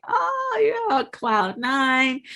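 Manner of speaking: high gushing "oh", then settling; mock bliss. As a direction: swoon as if on cloud nine. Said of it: "you're so happy".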